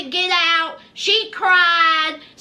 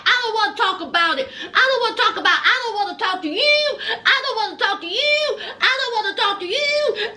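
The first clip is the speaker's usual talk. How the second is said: laughing through the quote; 2 semitones higher, faster than usual. Real, not acted. Quoting Ashley refusing, laughing.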